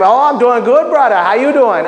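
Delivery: clumsy imitated Jamaican reply; bad Jamaican accent. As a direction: attempt a Jamaican accent, not quite right. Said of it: "I can't even do the Jamaican accent right".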